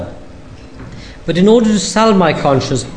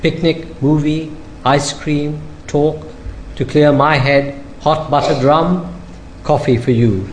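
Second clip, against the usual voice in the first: poetry reading; 4 dB quieter than usual. Acted. Poet reads his love poem to the audience, softly measured. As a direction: let each image hang in the pauses.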